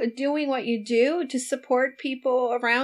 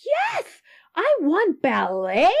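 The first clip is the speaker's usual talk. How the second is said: put-on much higher, eager child's voice; imitating a little girl; 7 semitones higher, 4 dB louder, slower than usual. Niece telling her mother she wants ballet, eager. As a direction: lightly voice the niece begging for ballet. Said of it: "my niece like".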